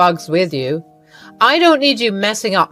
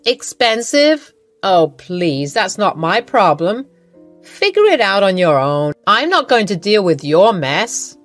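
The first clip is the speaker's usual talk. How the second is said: louder, scornful; contemptuous mother-in-law; 4 dB louder than usual. Acted. Iva tells Lily money is not her problem, scornful and louder. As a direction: wave her problem away.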